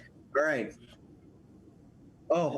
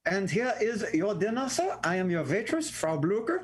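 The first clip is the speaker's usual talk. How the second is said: lightly acted waitress, pitched up; cameriera in scena; 5 semitones higher than usual. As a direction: present yourself grandly as the waitress. Plays waitress in caption joke.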